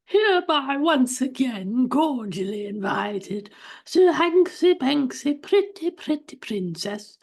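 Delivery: high, slow, grand announcer voice; podcast intro announcer. Acted. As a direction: sweep them in like a royal herald.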